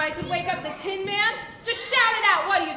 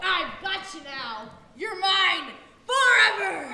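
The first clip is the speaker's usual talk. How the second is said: gloating witch. Acted. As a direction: savor the capture. Witch gloats over captives.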